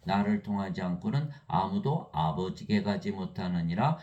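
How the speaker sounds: 아주 느리게 읽는 성경 낭독; 말씀을 한 자 한 자 천천히 읽듯이; slow scripture reading. Acted. Reads scripture slowly. (성경 구절을 천천히 낭독)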